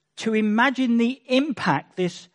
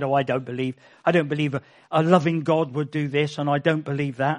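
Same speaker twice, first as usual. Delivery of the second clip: younger self protesting; 5 semitones lower, faster than usual. Retold or imitated. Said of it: "my sister saying to me when I said".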